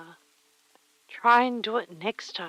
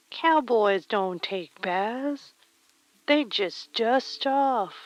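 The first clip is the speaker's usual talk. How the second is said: slow, drawled cowboy wisdom, a bit louder; cowboy accent; 4 dB louder, slower than usual. Pretend. Streamer answering Caldus in a slow, drawled cowboy accent. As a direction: drawl it slowly like an old ranch hand. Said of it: "the cowboy accent just comes to you".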